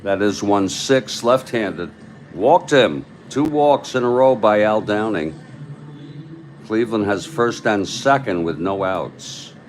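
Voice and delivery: punchy baseball commentary; live play-by-play. Acted. Announcer reporting a second walk in a row, play-by-play. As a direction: call the walk with emphasis.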